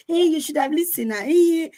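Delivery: high-pitched mock parental scolding. Parents refusing to apologize to their child, mock scolding in high pitch. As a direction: exclaim it as an indignant parent brushing off blame. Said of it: "They're like".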